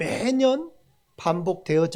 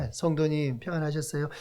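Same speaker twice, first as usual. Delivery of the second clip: weak, soft, boring, dull, lifeless voice; 4 semitones lower, 7 dB quieter than usual. Demonstrating a church greeting that sounds weak, boring greeting tone. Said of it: "정말 힘없고 재미없잖아요".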